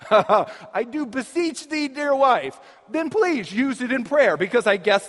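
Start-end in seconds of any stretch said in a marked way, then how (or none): 0.1-2.6 slow, grand beseeching to a wife; hammed-up formal plea; a touch of churchy formality; mock pompous address. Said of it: "if you use the word beseech with your wife".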